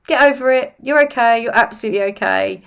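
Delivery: put-on a parent briskly waving away a child's tears; mock-cheery parent hushing a hurt kid; dismissive parent. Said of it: "it's likely that you were told".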